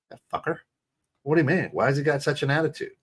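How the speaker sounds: high-pitched, indignant imitation; acted upset reaction. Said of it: "if she's having a bad day".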